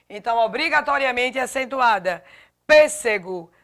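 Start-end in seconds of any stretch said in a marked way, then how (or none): 2.7-3.5 "Pêssego" with a louder first syllable; stress on PÊS. Shown as a demonstration. Teacher showing the tonic syllable, first-syllable stress on "Pêssego". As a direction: hit the opening "Pês" of "Pêssego". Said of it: "sílaba tônica P".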